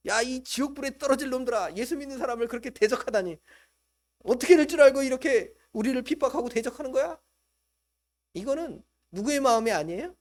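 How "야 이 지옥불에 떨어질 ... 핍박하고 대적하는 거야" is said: raised, scolding preacher's mock rant, louder at the end; hammed-up fury, building louder; mock angry rant. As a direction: rail at them as the wrong example. Mock quote of hostile believers.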